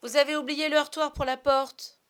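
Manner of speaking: high, loud cry of dismay; high-pitched, accusing outburst; exclaiming. Acted. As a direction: cry out loudly in reproach. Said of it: "il s'écria".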